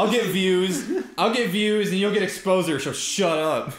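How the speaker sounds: vlogger. Pretend. Mocking vlogger attitude.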